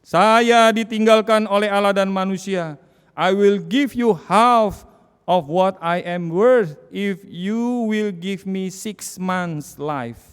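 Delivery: loud, high, slow cry of despair; a dying philosopher's loud, desperate plea; retold dying cry. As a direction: cry out like a man dying abandoned. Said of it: "dia teriak".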